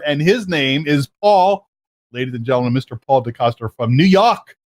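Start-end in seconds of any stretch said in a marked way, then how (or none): 2.1-4.6 announcer intro. Acted. Host formally announces guest.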